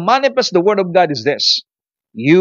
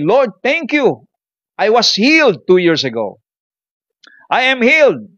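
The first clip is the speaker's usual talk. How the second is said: confident declaration; 6 semitones higher than usual. Retold or imitated. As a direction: declare healing like the woman with goiter. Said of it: "lagi niyang sinasabi ay". (tiyak na pagpapahayag ng babae: "I am healed")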